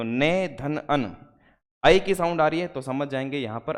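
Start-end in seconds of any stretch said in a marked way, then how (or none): 0.0-1.1 ने धन अन said slowly, part by part; slow split reading. Shown as a demonstration. Teacher to students splitting नयन, slowly. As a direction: stretch out each syllable. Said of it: "जैसे हम लिखते हैं नयन".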